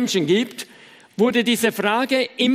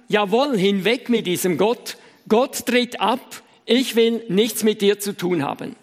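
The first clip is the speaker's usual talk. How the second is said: mock call back; 2 semitones lower than usual. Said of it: "fing er auch an zu rufen".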